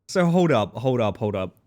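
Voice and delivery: excited. Real, not acted. Excited interruption.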